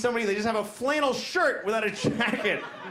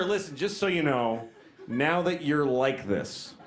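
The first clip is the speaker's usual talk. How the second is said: a hint of a lower, calm doctor, with laughs; imagined doctor; 6 semitones lower than usual. Doctor advising the old lady about her collar, low and dry. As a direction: play the frank doctor, lightly voiced. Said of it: "He could have said to her".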